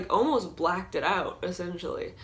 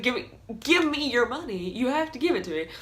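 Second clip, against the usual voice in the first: higher, pleading-pushy; panicky demand; 5 semitones higher than usual. Retold or imitated. Robber to the girl, nervous higher demand. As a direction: beg and demand at once. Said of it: "he's just like".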